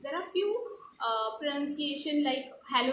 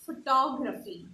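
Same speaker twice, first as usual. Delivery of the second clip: photography stressed on the second syllable, pho-TOG-ra-phy; 5 dB louder than usual. Shown as a demonstration. Teacher showing students the correct stress in photography. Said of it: "it's stressed a little more".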